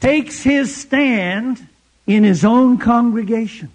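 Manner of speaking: a light mock samurai, slowed at the end; playfully hammed-up samurai delivery; barely voiced samurai imitation. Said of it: "Watch me do my samurai imitation".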